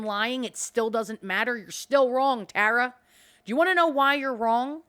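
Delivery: really getting fired up at Tara; worked up rant. Real, not acted. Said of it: "I am getting myself all worked up".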